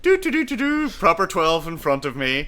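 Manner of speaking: high, loud, hammed-up rant; mock McGregor rant. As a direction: blurt it out like a cocky fighter. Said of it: "he's like".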